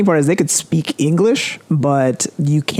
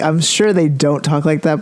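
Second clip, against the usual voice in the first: ordinary delivery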